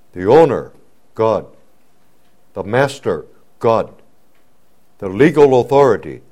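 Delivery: building litany. Acted.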